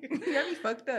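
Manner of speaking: soft sassy line through laughter; laughing mock sass. Friend mocks cursing at a cop, soft and laughing. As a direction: laugh while faking attitude.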